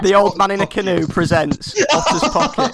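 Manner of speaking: hushed nature documentary narrator; David Attenborough impression. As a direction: say it like a wildlife documentary. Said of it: "David Attenborough".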